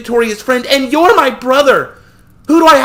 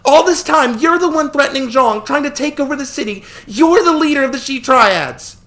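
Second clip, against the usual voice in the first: high, loud, sob-choked voice; tearful screaming; 6 dB louder than usual. A narrator's reading. Sister confronts her brother, tearful screaming. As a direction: scream at him through tears. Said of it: "she screamed, her voice choking on sobs".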